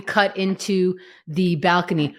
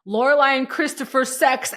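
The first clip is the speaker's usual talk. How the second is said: higher-pitched mock exclamation; reading out with exclamation; 4 semitones higher than usual. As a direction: read it out as a written exclamation. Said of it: "exclamation point".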